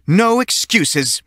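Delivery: teacher refusing every excuse, slowly; slow firm teacher. A narrator's reading. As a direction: drag out the verdict like a witch.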